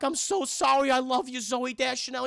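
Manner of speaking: hammed-up heartfelt apology; melodramatic love confession. Mark Wahlberg tells his wife he loves her, high melodrama.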